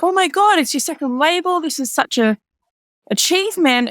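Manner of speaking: hammed-up excited congratulations; mock gushing. Friends gushing at label launch.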